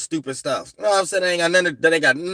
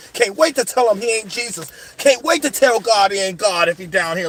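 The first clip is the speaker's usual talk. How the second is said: defiant eagerness; 4 semitones higher than usual. Acted. Acts out eagerness to challenge anyone.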